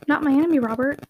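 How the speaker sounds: "Not my enemy, Robert?" lifted on "enemy", rising on "Robert"; questioning. A narrator's reading. Caroline quickly asking her cousin again, "Not my enemy, Robert?" as a rising question. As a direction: ask "Not my enemy, Robert?" with a light rise on the name. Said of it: "Caroline had only time again to question".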